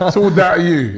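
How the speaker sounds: says it through a laugh; laughing tease. Real, not acted. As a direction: rib him while laughing. Teasing Doyle, laughing.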